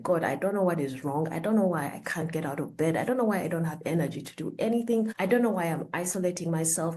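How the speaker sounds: retold desperate prayer, rising to a whispered plea; a retold plea to God, almost breaking. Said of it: "really praying ... I was like".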